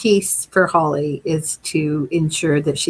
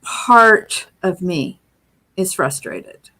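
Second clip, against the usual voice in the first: slow gentle reframe; slower than usual. Shown as a demonstration. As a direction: say it slowly and let it settle. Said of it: "you can always say".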